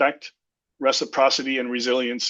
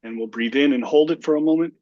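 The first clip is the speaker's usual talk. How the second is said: guided deep breathing. Shown as a demonstration. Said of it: "take three deep breaths".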